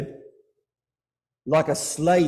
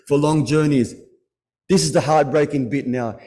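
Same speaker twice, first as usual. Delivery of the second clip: louder, pressing grief; emphatic lament; 3 semitones lower, 4 dB louder than usual. Real, not acted. Preacher warning congregation, loud pained emphasis. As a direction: push the heartbreak out.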